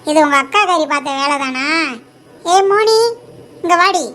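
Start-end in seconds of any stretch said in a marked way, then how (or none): 2.5-4.1 calling out. Acted. Mother summons elder daughter.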